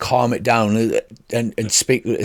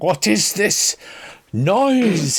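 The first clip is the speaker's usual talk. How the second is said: strange, high-pitched, squeaky, drawn-out creature voice; 8 semitones higher than usual. Voicing a creature that recoils from bagpipe music: weird high-pitched voice. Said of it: "in the weird high-pitched voice".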